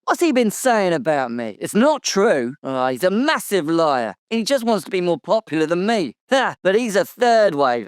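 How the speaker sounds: high-pitched indignant outburst; indignant denial. Acted. Interviewee rebuts what a rival said about him, indignant. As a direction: protest hotly, pitch leaping up. Character angrily denies a rival's claims.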